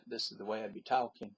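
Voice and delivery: quick demo of his own Southern US accent; fast, natural Southern US accent sample. Shown as a demonstration. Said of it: "if I didn't cover up my southern accent".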